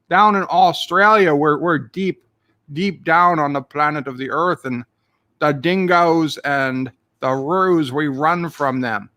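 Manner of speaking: hammed-up Australian accent. Shown as a demonstration. Streamer showing chat how Aussies differ from Irish, Aussie accent. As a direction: put on a broad mock Aussie voice. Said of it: "Aussie Opre has a deeper accent".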